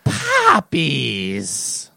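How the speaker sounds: lightly voiced drawn-out witch chant; Wicked Witch impression. Imitates Wicked Witch of the West.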